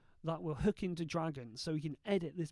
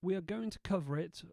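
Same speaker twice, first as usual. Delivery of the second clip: dictation voice; 2 semitones higher than usual. Shown as a demonstration. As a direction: dictate it clearly for the software. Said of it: "edit this with nothing more than my voice".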